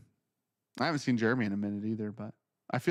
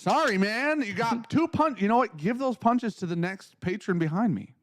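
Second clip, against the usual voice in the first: mock sassy reply; 8 semitones higher than usual. Acted exchange with cashier.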